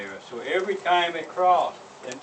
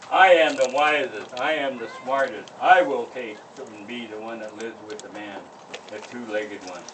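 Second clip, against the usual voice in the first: loud sly coyote; boastful coyote; 6 dB louder than usual. Acted. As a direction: boast loudly and slyly.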